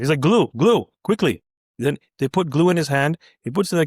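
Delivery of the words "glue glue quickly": louder, insistent demand; impatient order. Retold or imitated. Doctor to the nurse mid-procedure, impatient. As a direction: press them for it, urgently. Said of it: "getting impatient".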